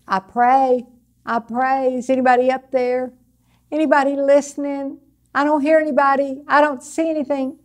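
searching prayer. Acted. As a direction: call upward, wondering if anyone is listening. Acts out unanswered prayer to heaven.

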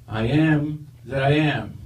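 slow solemn voice of God; booming voice. Acted. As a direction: intone it slowly, godlike. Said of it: "a booming voice says".

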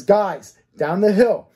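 put-on curt, impatient command to the girls; clipped order, losing his patience. Offender orders the two girls downhill, impatiently. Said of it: "He says it impatiently".

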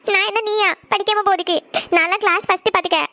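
indignant through tears; crying. Acted. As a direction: defend yourself between sobbing breaths. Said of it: "எதுக்கு அழுதுட்டு இருக்கேன்னு". (அழுகையோடு ரோஷமாக)

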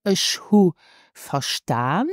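Ich hu verstaan with no n on hu; dropped n. Shown as a demonstration. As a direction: say hu without the final n. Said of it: "let's repeat for the correct pronunciation".

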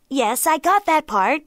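high, loud jackal reply; agreeable jackal. A narrator's reading. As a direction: chime in brightly as the jackal. Jackal humours the angry tiger.

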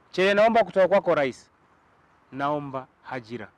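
a heartfelt public plea, rising in force; earnest plea to the president. Real, not acted. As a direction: beg the president sincerely for a job. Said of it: "ungemwambia nini?".

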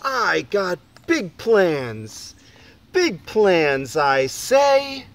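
slow, booming boast of big plans; proud shout. Acted. Boy on the hilltop shouting to the town, booming. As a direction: belt it out like a tiny tycoon. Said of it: "and shout".

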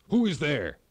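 loud commanding challenge; king demanding who is at the door. A narrator's reading. King demanding who stands at the door, loudly. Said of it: "the king demanded".

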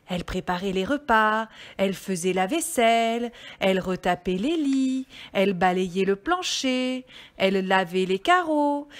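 measured, melodic storytelling; story reading for children. Acted. Reader telling children about the little red hen, storytelling voice. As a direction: read it out like a picture book.

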